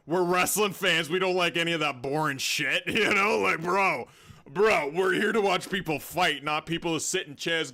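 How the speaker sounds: loud fan rant at the chat; fired-up rant. Real, not acted. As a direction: hype them up, loud and high.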